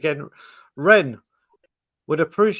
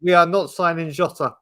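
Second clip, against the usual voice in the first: every word of "we are not signing Jota" pressed firm and a little louder; in capitals; 4 dB louder than usual. Shown as a demonstration. To his brother on air, "we are not signing Jota" stated in capitals. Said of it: "and in capitals".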